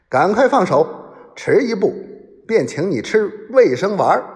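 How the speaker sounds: high, forceful bodyguard's warning; shouted ultimatum, pitched well up; loud shouted threat. A narrator's reading. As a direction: bark out an armed threat. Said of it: "大声喝道".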